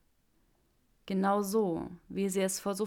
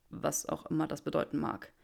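Draco's voice; 3 semitones lower than usual. Acted. Draco unsure what it means, lower. Draco's line, later echoed.

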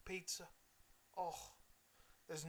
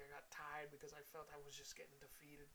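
whispered confession; 7 dB quieter than usual. Real, not acted. Confessing a relapse, voice drops.

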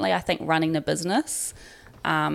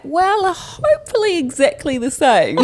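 mock deadpan reply; 10 semitones higher, 6 dB louder than usual. Her own reply retold.

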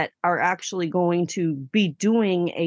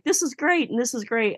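mock chirpy praise; 5 semitones higher than usual. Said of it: "he was consistently like".

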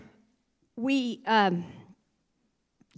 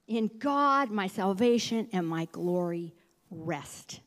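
slow, reverent psalm reading; scripture reading; slower than usual. Acted. Pastor's wife reading Psalm sixty-two to church, reverent. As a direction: read it like a prayer.

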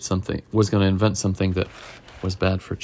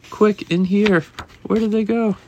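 a hint of a hurried chef, higher; lightly voiced, urgent whisper-free hurry; 10 semitones higher, 3 dB louder than usual. Chef hurrying his animals to hide, mildly urgent voice. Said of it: "He tells his animals in his kitchen".

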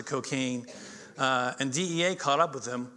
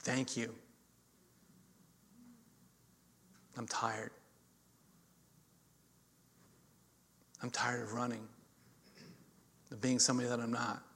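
weary and relieved; 3 semitones lower, 9 dB quieter than usual. Retold or imitated. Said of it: "what else he says".

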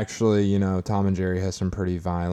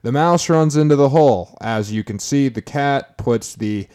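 lawyer addressing the jury; 4 dB louder than usual. Pretend. Mock courtroom closing argument.

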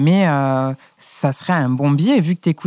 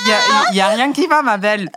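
high, loud, laughing squeal; cracking up mid-sentence; after laughing hard; 9 semitones higher, 4 dB louder than usual. Real, not acted. Co-host cracking up at message.

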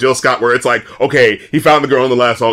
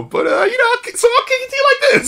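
much higher, fast mock smooth talker; smooth rapper line. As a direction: ham up a slick rapper's pitch. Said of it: "it's just the way he does it".

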